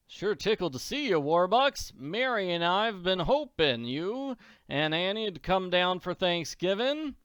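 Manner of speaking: put-on a pleased old farmer welcoming friends; folksy farmer Silo. Mister Silo welcomes Warbucks for Thanksgiving, folksy.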